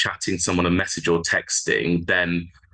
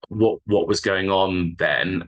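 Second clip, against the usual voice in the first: softened question; slower than usual. Shown as a demonstration. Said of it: "softening it and saying".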